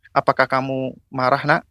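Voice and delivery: gentle question. Acted. Mother asking her child about anger, gently. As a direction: ask it gently, without any accusation. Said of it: "kita tanya pelan-pelan".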